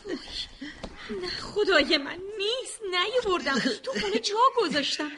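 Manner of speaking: distressed. Acted. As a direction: lament it, getting frantic. Mother finds key missing.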